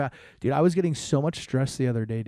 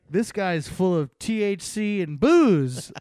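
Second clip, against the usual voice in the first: a hint of a cat character, pitched up; lightly voiced cat; 6 semitones higher, slower than usual. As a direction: playfully put words in the cat's mouth. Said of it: "He's like".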